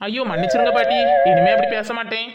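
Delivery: loud, hurried plea for mercy; loud mock-frightened sorry; panicky loud apology. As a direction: beg the old woman not to be angry. Scolded, begs grandmother's pardon.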